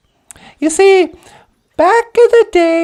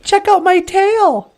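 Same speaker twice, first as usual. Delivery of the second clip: higher, boastful show-off voice; boastful beaver; 5 semitones higher than usual. Acted. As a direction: brag about the tail to the bear. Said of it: "He was all like".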